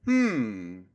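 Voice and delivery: long sliding "hmm"; curious hum. Shown as a demonstration. Man retrying his curiosity sound, curious falling hum. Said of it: "but in a lighter way".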